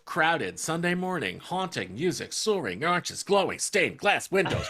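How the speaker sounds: halting, word by word with long pauses; Shatner-style pauses. Shown as a demonstration. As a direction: chop it up like Shatner. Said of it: "Why am I doing the Shatner thing right now?".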